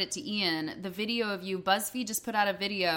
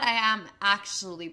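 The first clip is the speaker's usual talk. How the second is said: creaky vocal fry. Real, not acted. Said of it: "I'm just hearing the vocal fry in my voice".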